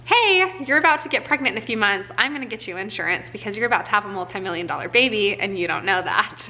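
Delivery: playful voice of God. Retold or imitated. She imagines God warning her, in a lightly playful voice. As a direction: lightly play God giving a cheerful heads-up.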